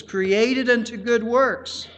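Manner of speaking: weight on the preposition "unto", drawn out; stress on unto. Real, not acted. Preacher points congregation to a preposition, stress on "unto". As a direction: lean on "unto", slow and deliberate. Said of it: "put the emphasis on a preposition".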